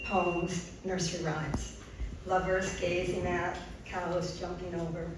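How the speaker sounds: measured poetry reading with pauses between phrases; poem reading. Acted. Poet reads her moon poem to the audience, measured recital. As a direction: let each short phrase stand on its own.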